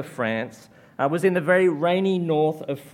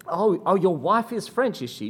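lightly voiced nosy local, pitched up; curious French local; 4 semitones higher than usual. Preacher imitating French locals quizzing him, mildly mock-curious. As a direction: play the surprised stranger prying a little.

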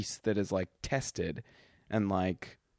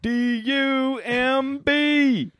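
mock dumb voice; 10 dB louder, much slower than usual. Spelling out Gallagher's comedy bit.

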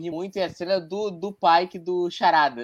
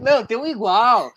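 laughing quote; 5 semitones higher, 6 dB louder than usual. Retold or imitated. Retelling Pike's reply, laughing.

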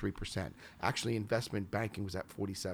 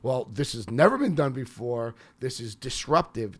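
hyped pitch; 6 dB louder than usual. Shown as a demonstration. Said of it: "the other pitch of coming and saying".

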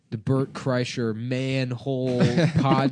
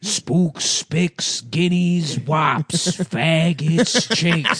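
lightly mock-cheering slur list, a touch higher; Carlin slur list; 3 semitones higher, much slower than usual. Host mimics a comedy bit for his co-hosts, lightly hammed-up. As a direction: rattle them off like a comedian's bit. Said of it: "like the Carlin bit where he just lists every slur".

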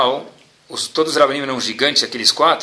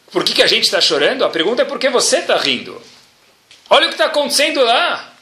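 raised, urgent questioning of a friend; indignant friends; 6 semitones higher, faster than usual. Retold or imitated. Friends at the ruins ask Rabbi Akiva why he laughs, raised and urgent.

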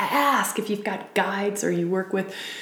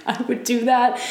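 laughing; 3 semitones higher than usual. Real, not acted. Repeat with a laugh.

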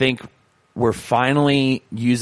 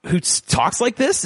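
animated; 10 semitones higher than usual. Shown as a demonstration. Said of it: "Is there anyone who's so animated?".

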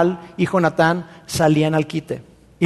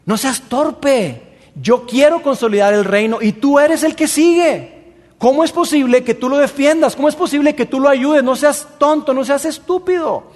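scolding king; 5 semitones higher than usual. Acted. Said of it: "Y le dice".

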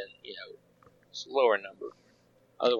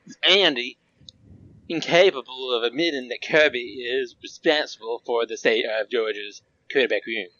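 put-on Southern accent. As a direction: read it like a Georgia football fan, Southern accent. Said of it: "read this with your most southern accent that you can muster".

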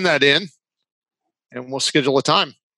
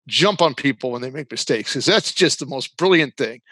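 sarcastic. Acted. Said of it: "I'm being sarcastic".

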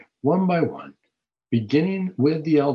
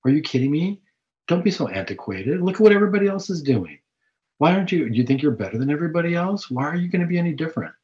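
coaxing, goading devil, a bit higher and quickening at the end; the devil tempting; 3 semitones higher than usual. Retold or imitated. The devil cheering a sinner on, goading. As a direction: egg the listener on like a tempter. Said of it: "He's saying".

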